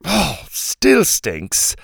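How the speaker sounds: slow, high disgusted drawl. A narrator's reading. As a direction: wrinkle your nose at it. Fairy sniffs, complains.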